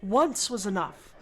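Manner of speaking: withering, drawn-out refusal; slow, weary disdain; Chatham. Acted. Game master as stuffy doorman refusing visitors, withering disdain. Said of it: "met with a withering gaze".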